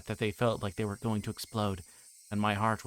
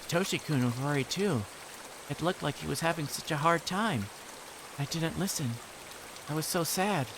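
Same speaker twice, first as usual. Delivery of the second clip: put-on wistful girl; 7 semitones higher than usual. Reina telling Keiichi about Satoshi, wistful girl. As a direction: sadly recall a lost friend.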